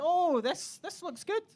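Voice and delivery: hammed-up shopper; mock fake interest. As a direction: act impressed. Playing the haggle game.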